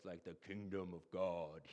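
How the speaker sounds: deep, low movie-trailer narrator delivery. Speaking to a group, showing how a phrase sounds in their head: deep narrator voice. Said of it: "this like deep narrator voice".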